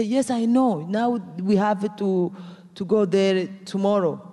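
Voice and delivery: mildly excited quote, starting high. Retold or imitated. Friend answering news of White House call, excited. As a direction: replay a friend's eager reply.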